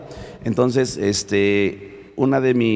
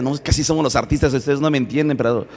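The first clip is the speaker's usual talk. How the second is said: joking; 4 semitones higher, faster than usual. Retold or imitated. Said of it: "él de broma decía".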